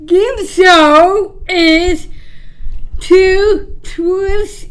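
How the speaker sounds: slow, drawn-out title announcement; game show announcer. Acted.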